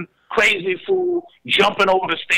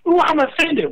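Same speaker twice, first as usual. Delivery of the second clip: mock offended; 11 semitones higher than usual. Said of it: "everybody's like".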